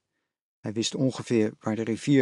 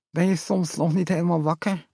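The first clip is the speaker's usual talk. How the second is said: lisping mother; 6 semitones higher than usual. A narrator's reading. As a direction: gently tease the sleepy boy through a numb mouth. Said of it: "lispelde het hert".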